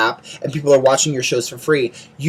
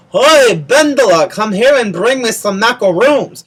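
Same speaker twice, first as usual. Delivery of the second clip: hammed-up Jewish grandma voice, higher and louder; bad Jewish grandmother accent; 5 semitones higher, 3 dB louder than usual. Vlogger imagines Ben's Jewish grandmother calling him, bad Jewish accent. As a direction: call out like a doting Jewish grandmother, badly faked accent. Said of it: "I cannot do accents".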